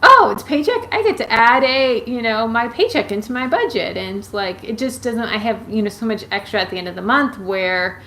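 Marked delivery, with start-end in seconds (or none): 0.0-4.0 high, loud mock surprise; playful fake astonishment. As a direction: act mockingly surprised. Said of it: "And I'm like".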